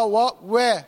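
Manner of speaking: وا moving from dark "wa" to thin "weh"; heavy then light waw. Shown as a demonstration. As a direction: contrast a thickened وا with a light one. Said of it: "مرققة".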